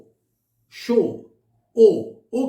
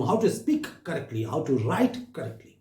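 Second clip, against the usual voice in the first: slow dictation; 5 semitones lower, 4 dB quieter, much slower than usual. Shown as a demonstration. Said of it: "teacher spells out rule slowly".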